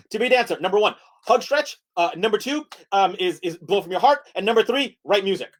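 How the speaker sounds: rushed, stumbling presenter list; five-second speed lecture. Shown as a demonstration. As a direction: blurt the summary against the clock. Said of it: "in five seconds".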